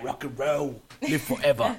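lightly British rocker voice; a hint of British rock star; British accent. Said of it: "little British accent".

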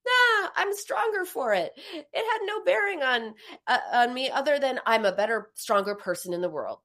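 brushing it off with mock bravado; denial. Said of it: "are denial".

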